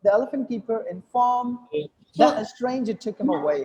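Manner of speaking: suspended pause after INFORMED, release only at AWAY; slight dip at INFORMED without dropping the air; held-breath pause. Shown as a demonstration. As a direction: hold the breath after INFORMED, then carry on with THAT. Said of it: "I hold the breath, I don't release it".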